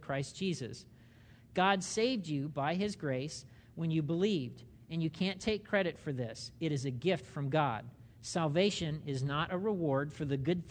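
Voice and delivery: measured reading, pauses between phrases; unhurried verse reading for people following along; slow reading. Real, not acted. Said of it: "I'm reading this slowly".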